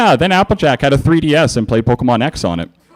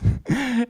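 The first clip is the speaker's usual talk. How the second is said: mocking laugh; 11 semitones higher, 8 dB quieter than usual. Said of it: "started to laugh".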